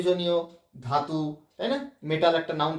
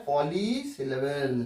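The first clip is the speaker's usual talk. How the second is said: পলিসিলেবল very slow and lower; emphasised key term; 4 semitones lower, 4 dB quieter, much slower than usual. Shown as a demonstration. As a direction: draw out পলিসিলেবল so it sticks. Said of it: "এটা মনে রাখার বিষয়". (পলিসিলেবল খুব ধীরে, টেনে)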